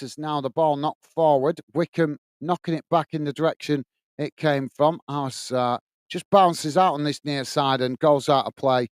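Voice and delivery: measured football commentary; live play-by-play. Real, not acted. Match commentator telling stream viewers it's a goal kick, measured play-by-play. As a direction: call the match steadily as it unfolds.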